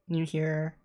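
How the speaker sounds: normal talking voice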